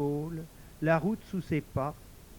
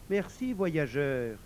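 talking tree; slower than usual. Acted. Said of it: "répondit l'arbre infirme".

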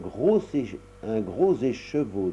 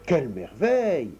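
mild exclaim; 2 semitones higher than usual. Acted. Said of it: "s'écria la mère Tricotti".

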